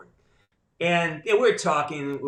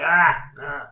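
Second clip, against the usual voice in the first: pained "ah"; 6 dB louder than usual. Acted. Guest on watching own films, pained recoil. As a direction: groan as if unable to watch.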